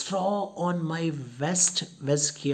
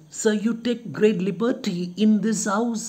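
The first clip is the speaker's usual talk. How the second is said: higher, lightly acted servant's protest; 8 semitones higher, 4 dB louder than usual. Luca complaining to the guest, protesting. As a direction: object to the guest's liberties, pitched up. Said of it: "he tells him".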